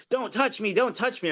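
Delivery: high mock panicky voice; mocking protester. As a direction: imitate her shrieking don't touch me. Retold shrill protester quote.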